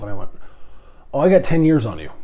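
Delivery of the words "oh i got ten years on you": quick, loud, laughing brag; laughing tease. Real, not acted. Teasing a younger pilot about seniority, laughing. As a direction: laugh it out as you tease him.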